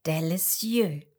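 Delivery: slow, savoured French "Délicieux"; French word. Acted. Frog praising crêpes, savoured French accent. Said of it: "Köstlich, sag ich dir".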